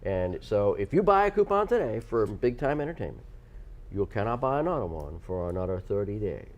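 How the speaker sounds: a light, vague mock Godfather accent; some kind of accent. Host explaining coupon rules, light Godfather accent. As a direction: lightly put on a gangster accent. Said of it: "So what accent was that?".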